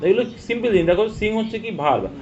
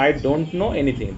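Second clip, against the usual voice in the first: 1 slow read-out; much slower than usual. Shown as a demonstration. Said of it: "আমি কোনো কিছু জানি না".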